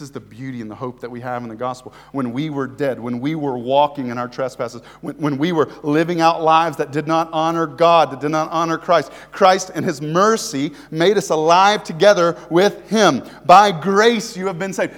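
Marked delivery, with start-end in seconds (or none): 5.0-14.9 preaching at full force. Acted. Preacher to his congregation about God's love, fervent and loud. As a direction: lift the room, press every line home.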